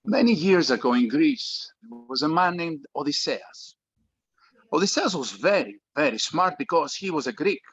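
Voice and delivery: put-on Greek father, heavy Greek accent. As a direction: speak English with a thick Greek accent. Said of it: "speaks with a heavy Greek accent".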